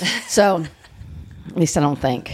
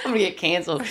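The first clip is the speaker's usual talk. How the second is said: laughing echo; 2 semitones higher, 4 dB quieter, faster than usual. Real, not acted. Echoing the tease, laughing.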